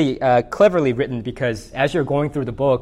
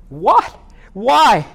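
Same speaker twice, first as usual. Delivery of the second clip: high, louder disbelieving yelps; incredulous elephant; 8 semitones higher, 5 dB louder than usual. Acted. Elephant told he must wait, louder incredulous protest. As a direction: shoot each word up in outrage. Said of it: "responds in disbelief".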